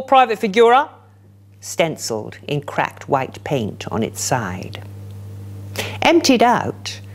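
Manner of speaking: measured, dramatic poem reading; poetry reading. Acted. Poet performing a crazy lady's blues song poem, measured and dramatic. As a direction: let each image land for the room. Reads Reservist poem aloud.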